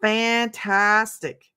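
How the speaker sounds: Fantastic stretched very slowly, each syllable savored; drawn out. Shown as a demonstration. Host repeats her favorite word, drawn out slowly. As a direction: draw out Fantastic like a signature word. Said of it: "Does anybody say that besides me?".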